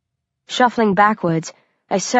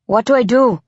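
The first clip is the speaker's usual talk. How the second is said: higher-pitched, uncertain question; nervous; 4 semitones higher, 3 dB louder than usual. A narrator's reading. Novice hunter asking his leader for orders, nervous. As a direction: ask it with a touch of nerves. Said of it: "He sounds nervous".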